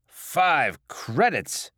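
slow, loud, outraged echo; incredulous. Acted. Drinker balking at the cost of a shot, incredulous. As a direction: drag out the price in disbelief. Customer balks at the price.

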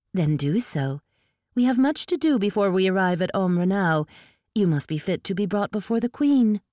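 lightly voiced elf noblewoman giving curt orders; a hint of a high, imperious courtier; haughty elf lady. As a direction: command briskly, looking down on her. Sparrow instructs Tinker.

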